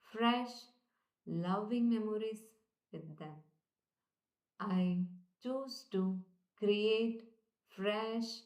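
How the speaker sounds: slow, deliberate, calm affirmation voice; gentle guided repetition at slow pace; slow affirmation recital. Shown as a demonstration. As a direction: recite each word slowly as a self-affirmation. Recites affirmations, repeating each.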